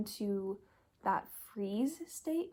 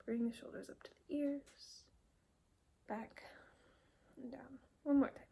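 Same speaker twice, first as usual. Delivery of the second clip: soft, spaced-out stretch cues; hushed instructor, trailing softer on each step; soft exercise guidance; 3 semitones higher, 6 dB quieter than usual. Acted. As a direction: guide the movement quietly, pausing between steps. Leads a breathing stretch.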